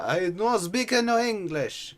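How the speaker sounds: slow, loud, high mock-Italian accent; bad Italian accent. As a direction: put on a hammed-up Italian accent. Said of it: "it's not a good Italian accent".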